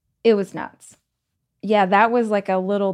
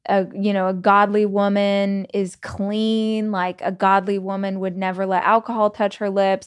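mock preachy commenter. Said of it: "throwing scriptures at me".

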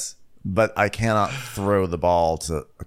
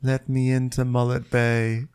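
Kyle; 5 semitones higher than usual. Acted. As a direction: beg as if shut outside a window. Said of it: "Kyle from Summer House pressed up against the window being like".

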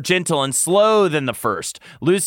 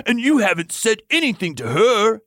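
exclaiming; 9 semitones higher than usual. Acted. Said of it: "Lucien exclaimed".

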